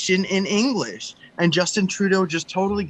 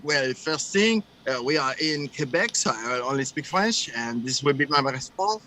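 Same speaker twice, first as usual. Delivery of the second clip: mock French-accented politician; 4 semitones lower than usual. Retelling Trudeau's town hall answer, mock French accent. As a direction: imitate him in French-accented English, lower. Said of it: "he just answers completely in French".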